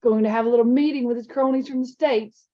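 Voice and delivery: lightly voiced taunting bully; a hint of a smug older student; sneering older boy. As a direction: sneer it at him.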